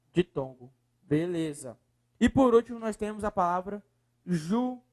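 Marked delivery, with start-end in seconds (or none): 4.2-4.8 syllable by syllable. Shown as a demonstration. Teacher splitting the last word for students, syllable by syllable. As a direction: pause after each syllable of "judiciário".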